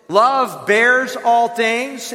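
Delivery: very slow, weighty reading; slow scripture emphasis. Acted. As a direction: lean on each word of the verse.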